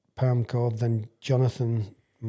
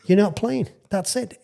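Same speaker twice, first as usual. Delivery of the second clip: higher, laughing through the verdict; can't hold back the laugh; 9 semitones higher, 4 dB louder than usual. Real, not acted. Laughing while retelling.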